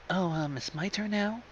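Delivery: sanft, zögernd gefragt; leise und schüchtern. Acted. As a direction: scheu nachfragen, kaum hörbar. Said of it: "Fluttershy asked meekly".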